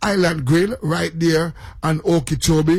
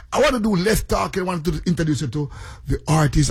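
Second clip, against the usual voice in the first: quick, excited radio patter; talking too fast; faster than usual. Real, not acted. Radio host hurrying to introduce the artist, talking too fast. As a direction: rush through it in excitement. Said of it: "I'm talking too fast".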